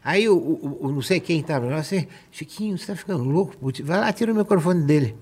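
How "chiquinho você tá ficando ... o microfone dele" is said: higher-pitched mock alarm; retold agitated urging. Guest urges Chiquinho to take the microphone away, agitated. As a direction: urge him to act, as retold.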